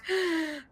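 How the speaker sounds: a sharp, hammed-up gasp mid-sentence; mock gasp for air. Breathless gasp mid-read, reading a run-on court filing. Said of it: "I need a third lung".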